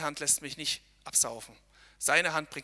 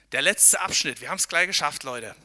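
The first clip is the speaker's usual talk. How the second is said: loud, encouraging call; 7 dB louder than usual. Real, not acted. Pastor calling encouragement to hikers, loudly. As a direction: shout encouragement up the slope.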